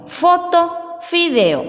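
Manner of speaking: slow dictation. Shown as a demonstration. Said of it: "vamos a hacer para el dictado".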